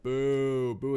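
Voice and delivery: clicking like horse hooves; horse noise impression. Shown as a demonstration. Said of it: "You do that well".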